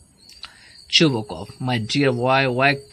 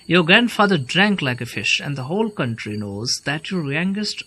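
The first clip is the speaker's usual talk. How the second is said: angry insult; 3 semitones higher, 3 dB louder than usual. Acted. Chubukov insulting Lomov's family, loud and angry. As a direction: fling the insult across the room.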